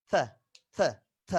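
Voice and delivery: থ with tongue tip lightly between the teeth. Shown as a demonstration. Teacher models the English theta sound, tongue lightly between teeth. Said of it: "জিভটা একটু হালকা দাঁতের মাঝখানে আসে".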